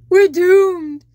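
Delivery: high loud panicked cry; cried out. Acted. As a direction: wail it like all hope is gone. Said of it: "cried Sebastian".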